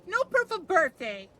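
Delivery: loud, high chanted taunt; mock it out loud; playful taunt. Taunting a teammate about proof, loud playful.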